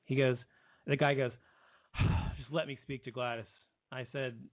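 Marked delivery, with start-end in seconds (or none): 1.9-3.5 sighing, mildly impatient retold demand; mock impatient caller. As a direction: imitate a caller put out at being questioned. Caller sighs, pressed for his name.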